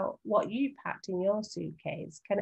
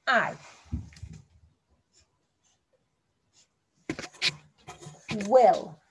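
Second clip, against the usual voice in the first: lone words with long gaps, louder; sounding out for spelling; 3 semitones higher, 4 dB louder, much slower than usual. Shown as a demonstration. Teacher sounding out words for young writers to copy. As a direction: spell it out one word at a time. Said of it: "W-I-L".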